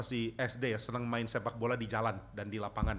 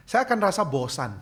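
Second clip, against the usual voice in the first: laughing; 6 semitones higher, 7 dB louder than usual. Real, not acted. Joking about boring dramas.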